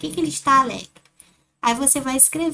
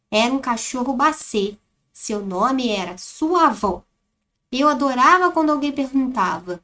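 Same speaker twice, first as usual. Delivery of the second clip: reading aloud. Shown as a demonstration. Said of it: "a Pro vai ler tudo aqui pra vocês observarem como está a entonação".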